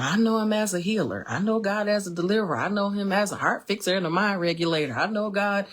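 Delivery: lightly imitated testifying, running in a list; mock church testimony. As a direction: recite stock praise like a churchgoer testifying. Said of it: "I could mock a testimony".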